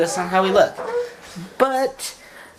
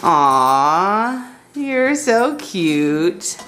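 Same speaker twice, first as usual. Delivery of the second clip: cooing; 5 semitones lower, much slower than usual. Real, not acted. Mom cooing at baby.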